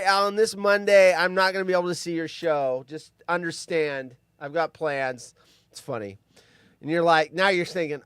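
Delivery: ordinary talk, nothing marked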